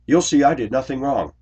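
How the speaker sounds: high, loud, hurried defiant protest; imitated yelling. Accused woman challenging the supervisor, mock indignant yell. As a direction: mimic her indignant yelling, easing off at the end. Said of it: "The woman starts yelling".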